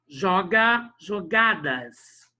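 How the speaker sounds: JOGADAS slowly, GA leaned on and stretched; stress on GA. Shown as a demonstration. Teacher finding the accented syllable, JOGA then JOGADAS with long GA. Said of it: "Na quarta sílaba acentuada".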